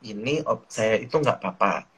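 gently reassure, with a touch of calm; calm reassurance. Retold or imitated. Daughter telling anxious parents about the operation, calm. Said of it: "Setelah saya berusaha untuk tenang".

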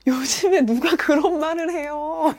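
big gasp, then high slow disbelief; hammed-up appalled reaction; mock shock. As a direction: act scandalized at their rudeness. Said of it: "당신 무례해라는 거 알려주기 위해서는".

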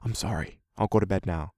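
very soft, voiced murmur; low murmur. A narrator's reading. Son apologising to his father at night, softly murmured. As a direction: drop to a subdued, barely there apology. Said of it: "His voice dropped to little more than a murmur".

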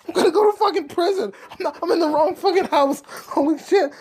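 high, agitated dawning alarm; hammed-up high-pitched freak-out; mock panic. Realizes he is in wrong house.

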